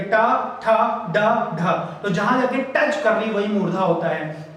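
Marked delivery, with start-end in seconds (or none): 0.0-1.7 टा, ठा, डा, ढा with tongue curled up and back; retroflex consonants demonstrated. Shown as a demonstration. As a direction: curl the tongue for टा, ठा, डा, ढा. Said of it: "जीभ हमें थोड़ा मुड़ती है".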